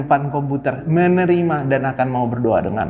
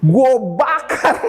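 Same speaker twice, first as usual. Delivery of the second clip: laughing; 10 semitones higher, slower than usual. Real, not acted. Tertawa sambil bercanda.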